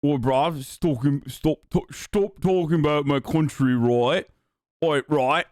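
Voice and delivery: lightly put-on British bruv voice; mock British accent. Offended Brit defending his country, mock British accent. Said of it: "I'm doing a British accent".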